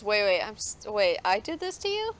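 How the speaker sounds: disbelieving, sharply rising question; taken aback. Acted. Girl to Soren, learning what she did, taken aback.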